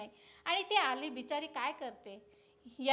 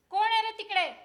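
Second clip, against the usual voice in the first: raised, higher call to the door; 5 semitones higher, 4 dB louder than usual. Acted. Office boss to the servant at the door, calling out. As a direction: call out to whoever is out there.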